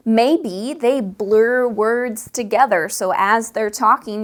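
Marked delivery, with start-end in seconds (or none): 0.1-2.9 blurred words. Shown as a demonstration. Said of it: "can't tell where one word ends".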